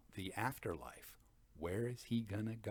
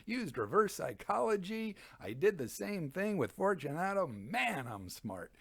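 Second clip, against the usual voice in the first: higher, smug boasting; lightly voiced smug braggart, higher on the boasts; mock bragging Montresor; 3 semitones higher than usual. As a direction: gloat like a proud murderer. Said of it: "you can tell he's kind of bragging".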